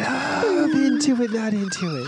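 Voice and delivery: shouting. Pretend. Yelling the show's segment name.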